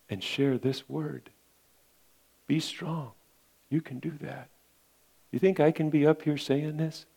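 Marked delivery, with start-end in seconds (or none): 2.5-4.5 soft encouragement. Acted. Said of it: "He's soft, gentle, and he's encouraging".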